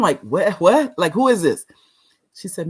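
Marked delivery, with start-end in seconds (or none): 0.2-1.6 puzzled reaction. Retold or imitated. Acts out her confused reaction.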